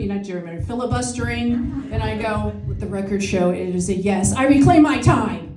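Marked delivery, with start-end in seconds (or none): 2.7-5.4 senator at a hearing. Retold or imitated. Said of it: "the senatorial hearing".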